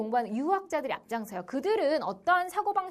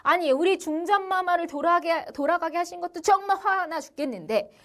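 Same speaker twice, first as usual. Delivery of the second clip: higher, indignant mock protest; imitated exasperated complaint; acted popular outrage; 4 semitones higher, 3 dB louder than usual. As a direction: voice the outraged people, pitch held up. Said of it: "드디어 민중들이 폭발합니다".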